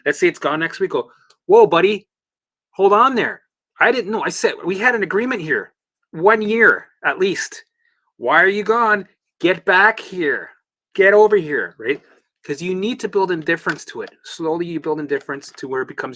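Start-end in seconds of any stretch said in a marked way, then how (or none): 1.5-11.8 high, loud mock telling-off; mock scolding shout. Calling the dizziness back, a hammed-up loud shout. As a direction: call the dizziness back like a runaway pet.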